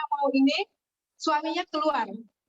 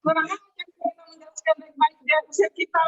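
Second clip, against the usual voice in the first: grumbling; 2 semitones higher, 3 dB louder than usual. Retold or imitated. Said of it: "Menggerutu di jalan".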